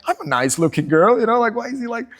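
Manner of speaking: lightly hammed-up indignant girl; offended girl. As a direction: voice her hurt pride. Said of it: "And I was like".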